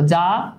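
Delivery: "যা" alone, starting low and rising; long, rising "যা"; split into syllables. Shown as a demonstration. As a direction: stretch "যা" as one separate syllable. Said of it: "ছোট ছোট অংশে ভাগ করি".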